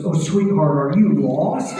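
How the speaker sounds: loud, lightly voiced granny concern; little old lady. Old lady in the front row asking the comic if he's lost. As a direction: ask sweetly if he's lost. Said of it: "She goes".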